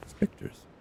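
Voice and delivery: breathy ghostly whisper; spooky whisper. Acted. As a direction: hiss it like a ghost story.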